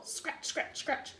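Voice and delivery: breathy whispered dashes. A narrator's reading. Reader voicing the bunnies in a whisper.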